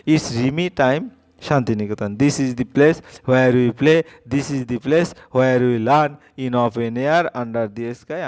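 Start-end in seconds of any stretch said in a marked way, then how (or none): 2.2-8.2 slow poem recitation. Acted. Reciting poem stanza for students.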